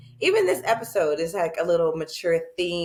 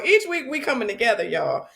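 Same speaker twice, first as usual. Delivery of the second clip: fast, hyped-up opener; fast hyped retake; 3 semitones higher than usual. Shown as a demonstration. Host relaunching the intro, fast and hyped. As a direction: punch it like a hype host. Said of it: "No, you tune in".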